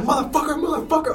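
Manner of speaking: high, loud mock scream of the word; imitated scream. Imitating the TikTok guy screaming while smashing a vase. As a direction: ham up the buff guy's screaming. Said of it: "He just screams, like".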